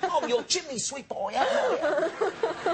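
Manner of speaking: high, hammed-up Cockney chimney-sweep accent; Mary Poppins-style English accent. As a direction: draw out a badly faked London accent. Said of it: "Mary Poppins kind of".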